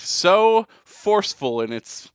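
mock grandeur.

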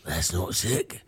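disgusted Cockney rat, drawn out at the end. Acted. Rat rejecting the gobbed up posset, disgusted Cockney rat. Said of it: "as long as it's a Cockney rat".

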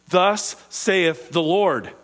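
lightly voiced prophet, stretching each word; prophetic proclamation. Quoting the prophets' formula.

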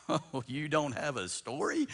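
teasing incredulity; mock disbelief. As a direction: act amazed and stretch it out. Mock surprise answering a no-story testimony.

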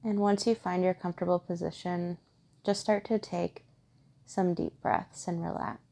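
calm, even meditation guide with long pauses; guided meditation. Acted. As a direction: gently guide listeners inward, steady and unhurried.

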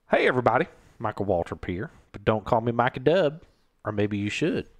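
lightly put-on folksy race recapper; a hint of a hammy TV personality; Michael Waltrip. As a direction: do a mild, silly recap impression. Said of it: "I do a stupid impression of Michael Waltrip".

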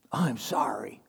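put-on a sulky child's mumbled whisper, no feeling in it; grudging whispered sorry. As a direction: whisper it like a caught kid who doesn't mean it. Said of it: "please say it like you mean it".

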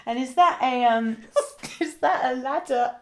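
high, giggly failed chat-up line; can't say it. Real, not acted. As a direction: break up laughing halfway through the line. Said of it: "Oh, I can't say it".

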